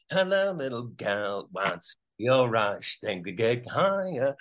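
slow, crooning pop-star wolf; a hint of a sixties pop-band singer; sixties teen-idol style. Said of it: "a singer, the monkey".

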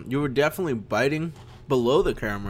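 talking while eating ice cream; words round a spoonful of ice cream; mouth full. Real, not acted. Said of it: "I'm eating ice cream".

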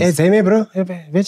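high put-on Cape slang voice; hammed-up Cape Flats heckle; mock Cape coloured voice. Mocking Cape coloured speakers.

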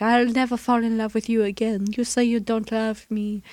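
lightly mock a hurt lover's protest; Emmanuel impression. Podcast host imitating the stewardess telling the pilot off, lightly pleading. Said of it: "That's your impression of Emmanuel?".

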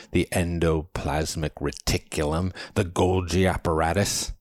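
carefully articulated terms like "endoplasmic reticulum"; precise scholarly diction. A narrator's reading. Man lists cell parts like "Golgi apparatus", precisely enunciated. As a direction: enunciate "cytoplasm" and "ribosomes" syllable by syllable. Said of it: "took time to enunciate each one with precise, scholarly diction".

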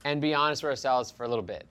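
casual sponsor read. Acted. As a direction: pitch it like an ad.

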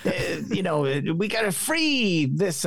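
a cheeky leprechaun, stage-Irish accent; hammed-up Irish leprechaun accent for an ad. Shown as a demonstration. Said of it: "I can do my Leprechaun accent".

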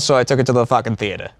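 quick Boston patter, R dropped in theater; Boston accent. Acted. Showing off for dates who like it, Boston accent. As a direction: rattle it off like a Bostonite. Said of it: "I love the Boston accent".

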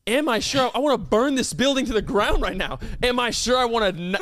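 mildly heated mock rant; indignant comeback. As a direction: throw the question back, affronted. Acted angry comeback to the manager.

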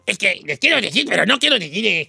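low, quiet, hesitant mumble; soft, halting voice of someone asking a favor; Chino. Acted. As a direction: ask timidly, stalling before the request. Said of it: "el chino que me diga".

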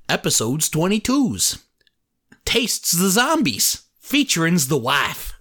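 put-on Canadian Letterkenny accent, extra s on words; Letterkenny accent, adding s sounds. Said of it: "You should do it like Letterkenny".

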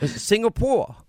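hammed-up high co-host impression; Linda. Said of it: "and I'll say, Linda, where are we".

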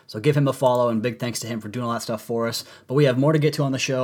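hoarse, strained voice from a cold; talking through a sore throat. Real, not acted. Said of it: "apologize again for my sore throat, my lack of voice".

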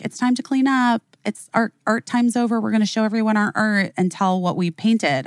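lightly voiced teacher announcement; retold preschool teacher. Teacher tells preschoolers art time is over, lightly voiced announcement.

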